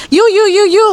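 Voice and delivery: put-on rich old lady calling. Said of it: "sabi niya".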